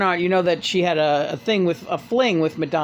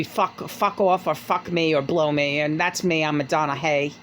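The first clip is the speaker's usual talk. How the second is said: impression of a pop singer; 2 semitones lower than usual. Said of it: "she talked like this".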